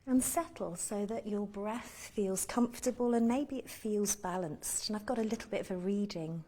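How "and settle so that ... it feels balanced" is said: calm meditation guide with long pauses; unhurried guiding voice, pausing to let them breathe; guided meditation. Real, not acted. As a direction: lead them gently through body and breath, leaving space between phrases.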